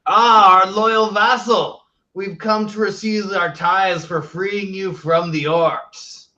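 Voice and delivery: slow, grandly condescending; pompous lord. Acted. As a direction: lord it over a lowly servant. Player plays haughty lord.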